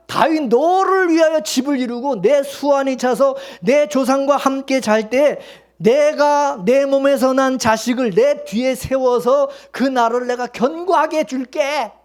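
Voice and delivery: God's promise. Retold or imitated. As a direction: lay out the promise slowly and weightily. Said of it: "하나님 뭐라 했어요". (다윗에게 약속하는 하나님의 느리고 장엄한 말투)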